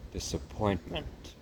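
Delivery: slow, drawn out Disappointment in her French lilt; her favourite word. Acted. Narrator echoing the mother's favourite word, slow and drawn out. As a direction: savour Disappointment slowly. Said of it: "one of her favorite words".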